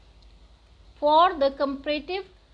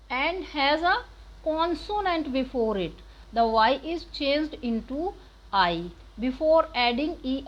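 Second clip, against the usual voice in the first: slow rule reading; much slower than usual. Acted. Teacher reads grammar rule aloud.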